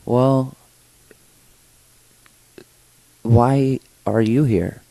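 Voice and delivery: lightly voiced great-great-grandmother, drawn-out question; quoted great-great-grandmother. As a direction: ask it slowly, lifting pitch and volume. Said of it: "And she's like".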